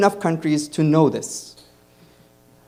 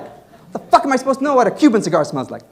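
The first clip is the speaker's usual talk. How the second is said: exasperated; 9 semitones higher, faster than usual. Retold or imitated. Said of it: "I'm like".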